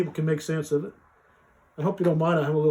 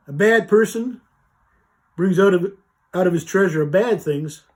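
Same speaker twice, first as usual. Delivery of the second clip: slow reading; 4 dB louder than usual. Shown as a demonstration. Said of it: "I'll read it slow and see".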